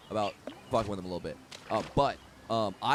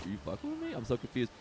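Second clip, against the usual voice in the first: imitated bewilderment, softer voice; confused; 6 dB quieter, faster than usual. Confused man asking if he's being messed with, quiet imitation. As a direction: softly act out someone puzzled. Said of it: "kinda confused".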